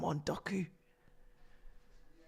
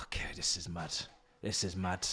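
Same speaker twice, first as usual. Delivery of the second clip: whispered; 10 semitones lower, 14 dB quieter than usual. Real, not acted. Disbelief after foul.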